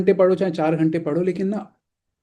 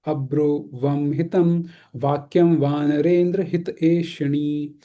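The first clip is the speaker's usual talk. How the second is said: slow, measured scripture reading; Sanskrit verse recitation; much slower than usual. Acted. Teacher reciting a Ramayana shloka to an online class, slow recitation. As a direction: recite the shloka slowly, syllable by syllable.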